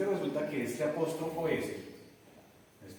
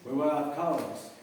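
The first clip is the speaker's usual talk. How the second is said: slow model; slower than usual. Shown as a demonstration. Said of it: "Estuvimos en donde Carlos".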